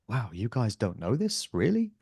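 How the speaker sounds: retold astonished thought, ending on a sharply lifted question; surprised disbelief. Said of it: "I was quite surprised".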